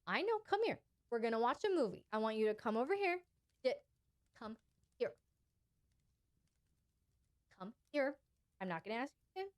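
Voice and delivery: gentle guiding. Shown as a demonstration. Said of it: "that's a time for you to guide".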